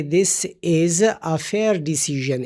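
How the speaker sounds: slow example. Shown as a demonstration. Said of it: "یا ہم اس طرح کہیں کہ".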